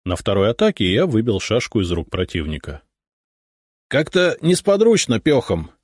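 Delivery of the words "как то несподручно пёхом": high-pitched, mildly sheepish excuse; embarrassed admission. A narrator's reading. Beaten swordsman excusing his loss on foot, embarrassed. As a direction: own up with a touch of embarrassment. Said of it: "сконфуженно признался он".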